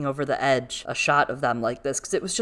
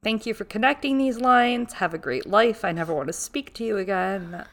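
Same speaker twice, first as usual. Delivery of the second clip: playful higher official voice; hammed-up arresting officer; mock official voice; 4 semitones higher than usual. Host mocking a character, mock official voice.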